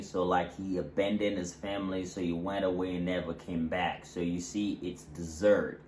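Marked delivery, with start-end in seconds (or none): 5.0-5.8 deSERT, with SERT carrying the weight; stress on second syllable. Shown as a demonstration. Teacher summing up the verb, stress on SERT in desert. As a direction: land firmly on SERT in desert. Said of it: "the stress will fall on the".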